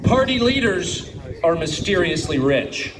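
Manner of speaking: slow, deliberate quote; slow reading. Real, not acted. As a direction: savour every word of the quote slowly. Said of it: "I want to read this slowly".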